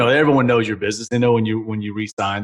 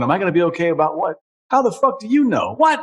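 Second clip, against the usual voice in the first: incredulous outburst; 5 semitones higher than usual. Retold or imitated. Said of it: "And I'm going".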